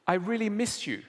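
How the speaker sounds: wife on the phone tells husband she misses him, mildly wistful; wife missing him. Retold or imitated. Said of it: "the wife says".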